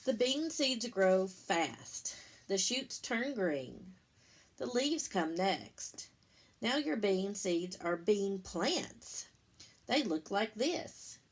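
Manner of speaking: slow, lilting picture-book read-aloud; reading to children. Acted. Teacher reading the bean book to her class, lilting storybook voice. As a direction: read it like story time for little ones.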